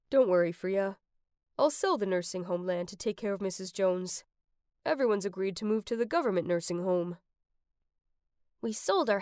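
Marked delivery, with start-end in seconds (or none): 0.1-7.2 low, lightly voiced comforting dad; gentle reassurance. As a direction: reassure in a mild, lowered voice.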